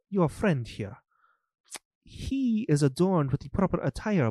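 a hint of a fussy, formal steward, a bit fast; bowing and apologizing in a lightly put-on voice; lightly voiced steward. Steward greets the lady at the estate, lightly voiced and apologetic.

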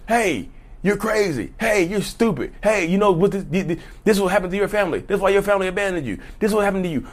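high-pitched, rapid taunting; acted needling. Toxic partner goading their victim, high quick needling.

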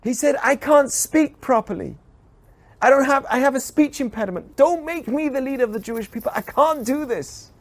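humble, reluctant leader's plea; Moses pleading. Retold or imitated. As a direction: beg to be let off the job. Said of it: "begged God".

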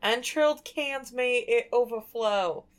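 hammed-up New York accent. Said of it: "You gotta say it with a New York accent".

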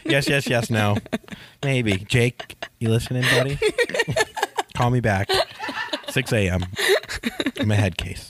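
put-on drunk dialing. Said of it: "Sorry for all the drunk voicemails".

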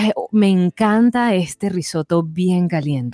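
coqueteo lento y meloso, apenas actuado; imitando a mamá coqueta. Retold or imitated. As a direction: imitar a una madre coqueteando con el mesonero, despacio. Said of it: "tú ves un mesonero y le dices". (coqueta y lenta, imitando a mamá con el mesonero)

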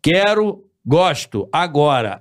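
isolated words with pauses, as if verbs won't conjugate; broken word-by-word speech. Shown as a demonstration. Speaker showing friends his broken way of talking, halting. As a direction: list "Água, quero, gosto, agora" one word at a time. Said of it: "Então eu falo".

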